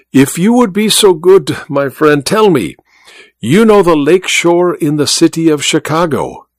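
a hint of a courteous foreign magician; Malvino's voice. Malvino asks Godal about Chicago.

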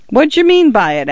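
lightly voiced suspicious policeman; gruff constable. A narrator's reading. Constable Winch confronts Fotheringay in the dark lane, gruff. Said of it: "asked the constable".

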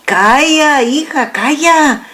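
high hushing "calla, hija"; hushing wife. A narrator's reading. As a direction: soothe her with a knowing hush.

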